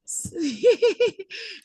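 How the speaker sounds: high-pitched imitated whimper in short bursts; mock crying. Teacher shows hurt sister about to cry, mock whimpering. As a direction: act out a little sister starting to cry. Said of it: "the sister wants to cry".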